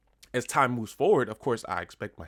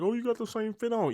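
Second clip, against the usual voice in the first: mock viewer; 13 semitones higher than usual. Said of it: "Y'all probably like".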